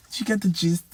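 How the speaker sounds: normal talking voice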